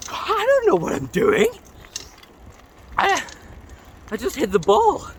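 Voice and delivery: a high, flustered wail, out of his depth; panicked helpless. Retold or imitated. Panicked golfer pleading.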